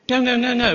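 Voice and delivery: firm preacher's refusal, "no" stamped four times; emphatic no. Real, not acted. Preacher rejecting sheepdog idea.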